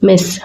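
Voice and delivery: మిస్ whispered, hissing the final s. Shown as a demonstration. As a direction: breathe out మిస్ and lean on the last s.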